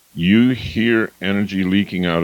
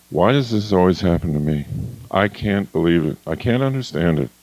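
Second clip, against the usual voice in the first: lower, sagging complaint; mild victim whine; 3 semitones lower than usual. Shown as a demonstration. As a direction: sound defeated and bewildered. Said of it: "The victim".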